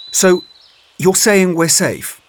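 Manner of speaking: high, slow, doubtful question; dubious. Acted. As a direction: sound unconvinced, drawing it out. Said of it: "Much asked dubiously".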